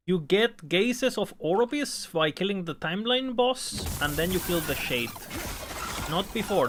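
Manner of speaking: slow, emphatic, spaced-out explanation; slow deliberate cadence. Shown as a demonstration. Streamer explaining to chat in one sentence, slow and emphatic. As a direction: spell it out slowly like one long sentence. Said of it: "my cadence of speaking is a bit like this".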